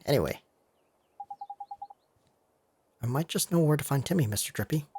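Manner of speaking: lightly voiced cocky Welsh sidekick; a hint of a Welsh lilt; cheeky Welsh fairy. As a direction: play the mouthy little fairy mate.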